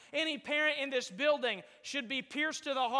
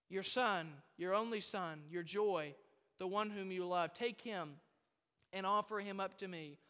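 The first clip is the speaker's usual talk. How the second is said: hushed solemn; 5 semitones lower, 6 dB quieter than usual. Acted. God's command restated tenderly.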